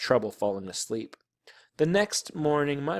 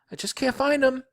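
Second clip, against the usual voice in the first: high, louder whine; frustrated little girl; 13 semitones higher, 4 dB louder than usual. A narrator's reading. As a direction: complain up high, exasperated. Girl searching in vain, panicking.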